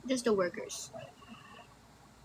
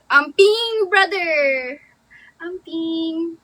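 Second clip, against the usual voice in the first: practising goodbye; 4 semitones higher, 6 dB louder, much slower than usual. Shown as a demonstration. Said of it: "that's so sweet".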